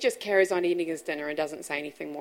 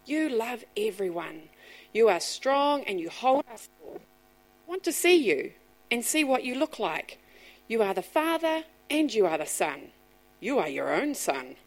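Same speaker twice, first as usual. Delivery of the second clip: put-on child's prayer; 2 semitones higher than usual. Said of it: "he says to God".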